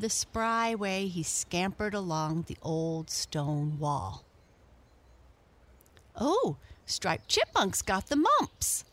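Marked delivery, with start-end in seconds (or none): 6.1-8.8 high, loud playful teasing; teasing shout. A narrator's reading. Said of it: "shouted the Merry Little Breezes".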